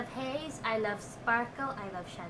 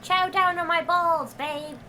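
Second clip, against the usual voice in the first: mock seductive; 6 semitones higher, 9 dB louder than usual.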